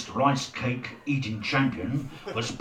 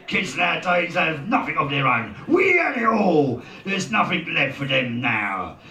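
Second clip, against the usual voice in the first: loud, raised-voice rant; ranting dad; 5 semitones higher, 5 dB louder than usual. A narrator's reading. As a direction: crow loudly about the good old days. Father rants after laughing.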